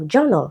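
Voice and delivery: "journal" with the first syllable stressed. Shown as a demonstration. Teacher giving students an example of root-word stress, first-syllable stress. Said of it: "first syllable".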